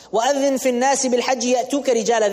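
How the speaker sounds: swift melodic recitation of the verse; rapid Quranic chant. Acted. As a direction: recite it in flowing Arabic.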